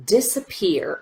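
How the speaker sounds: Disappear with the middle syllable barely there; rushed middle syllable. Shown as a demonstration. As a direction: rush through the middle of Disappear to stressed pear. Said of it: "we just rush through as quickly as we can".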